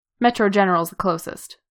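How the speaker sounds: plain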